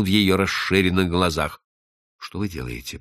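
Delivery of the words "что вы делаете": hushed, low and soft; soft, lowered, near-whispered question. Acted. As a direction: murmur it low under the breath. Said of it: "прошептал он".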